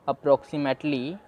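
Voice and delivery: approximately said very slowly and carefully; slow full word. Shown as a demonstration. Teacher finishing the read-through slowly. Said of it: "अब हम पूरा पढ़ लेते हैं".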